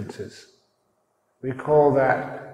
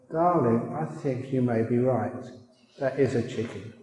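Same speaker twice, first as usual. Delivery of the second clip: gentle; 3 dB quieter than usual. Acted. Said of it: "squeezed her hand gently".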